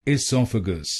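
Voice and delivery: "esophagus" as i-SOF-a-gus, short i, stress on sof; correct pronunciation. Shown as a demonstration. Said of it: "इसको बोलिए esophagus".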